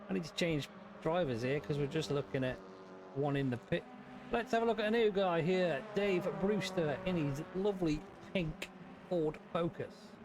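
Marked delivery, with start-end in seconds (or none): 4.3-10.1 race commentary. Acted.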